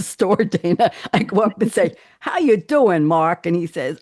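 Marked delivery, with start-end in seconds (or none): 2.2-3.4 mock New York greeting; lightly exaggerated New York accent; played-up New York accent. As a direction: greet him in hammed-up New Yorkese. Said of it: "I've never talked like that".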